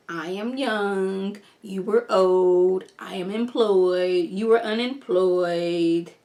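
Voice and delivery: slow, lightly voiced smug taunt; a hint of a victor rubbing it in; gloating press secretary. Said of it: "She's like".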